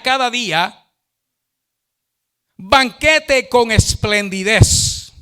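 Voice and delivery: slow, emphatic scripture reading; measured, declamatory Bible reading. Acted. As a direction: proclaim the verse, stretching key phrases. Reads the Bible verse aloud.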